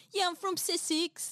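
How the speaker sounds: high mock Sussex accent; exaggerated regional English accent, pitched high; British regional accent. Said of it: "fonts of their accents".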